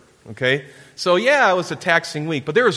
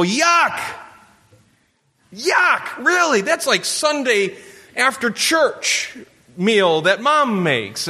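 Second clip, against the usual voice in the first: put-on grossed-out kid; 8 semitones higher, much slower than usual. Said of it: "look at me and go".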